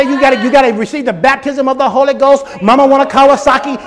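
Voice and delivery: a hint of a tarrying preacher; lightly mock the chanting; mocking tongues. Preacher mocking demands to tarry for tongues, light mockery. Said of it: "You gotta say it over and over".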